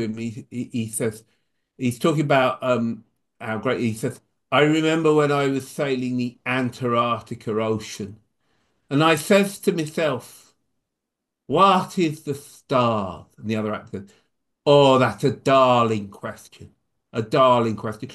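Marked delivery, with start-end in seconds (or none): 4.5-13.3 put-on a light Irish accent, quoting his dad's play; lilting Irish voice, slowing on the question. Son quoting his father's favourite play in Irish accent. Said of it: "pardon my not very good Irish accent". 14.7-18.1 put-on a light Irish accent, louder; mock-admiring Irish reply. Other actor answers in a light Irish accent. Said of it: "pardon my not very good Irish accent".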